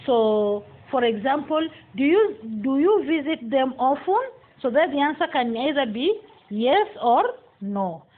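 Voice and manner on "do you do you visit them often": yes-no question lifting on "often"; rising intonation. Shown as a demonstration. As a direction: raise the pitch at the end on "often". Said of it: "Rising intonation".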